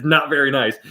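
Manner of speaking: mock-polite understated tone; gentle Canadian understatement. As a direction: say it like you can't bring yourself to be mean. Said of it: "the way she said it".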